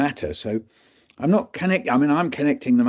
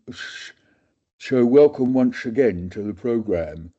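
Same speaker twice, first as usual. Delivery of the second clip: dreary, lightly slurred presenter read; slurred radio intro. Shown as a demonstration. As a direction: demo your old slurring announcer voice. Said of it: "That's the kind of way I was talking".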